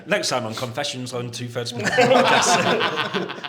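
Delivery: trailer voice. Pretend. Mock trailer announcement.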